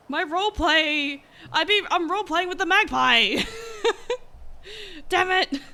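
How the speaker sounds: high wailing laugh-cry; laugh-crying in dismay; distraught wail. Real, not acted. Lost item, wailing.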